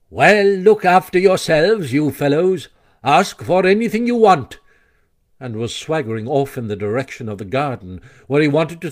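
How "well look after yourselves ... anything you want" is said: lightly voiced, offhand swagger; casual Toad. A narrator's reading. Toad breezily dismissing his friends, casual. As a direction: toss it off like a lord. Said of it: "remarked casually".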